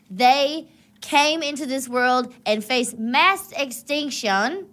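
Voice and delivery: grandiose rant; loud. Acted. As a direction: declaim like a zealot. Comedic monologue, loud and grand.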